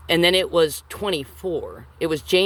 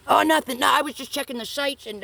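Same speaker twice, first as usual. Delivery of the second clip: higher, louder fake innocence; Frank's innocent act; 11 semitones higher, 3 dB louder than usual. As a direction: play it off like nothing happened. Frank covering himself, acted.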